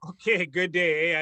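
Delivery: put-on playful Canadian hoser accent; mock Canadian accent. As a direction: draw it out in hammed-up Canadian. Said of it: "keep up this accent. I'm glad that you can".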